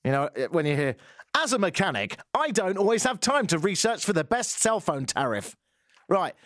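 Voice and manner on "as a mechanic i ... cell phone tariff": mock voice-over. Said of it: "No mechanic speaks like that".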